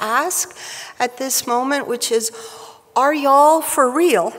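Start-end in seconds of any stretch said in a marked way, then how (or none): 3.0-4.3 playful put-on Texas twang, louder; lightly hammed-up Texas accent. Speaker jokingly asks about Cord's sporty family, in a Texas accent. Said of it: "in my best Texas accent".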